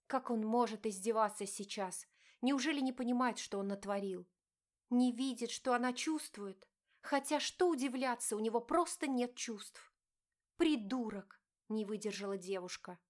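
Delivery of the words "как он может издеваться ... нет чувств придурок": wife confronting her cheating husband, pained; hurt wife. Acted. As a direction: plead and accuse at once. Diana's bitter thoughts.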